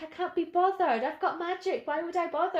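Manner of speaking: lazy cartoon character. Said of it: "she's a bit sometimes like".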